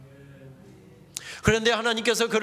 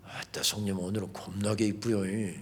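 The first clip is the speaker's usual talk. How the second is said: Jeolla dialect; 11 semitones lower, 7 dB quieter than usual. Retold or imitated. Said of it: "겁나게 왜 인사에다가 칭찬하고 격려하는 말들".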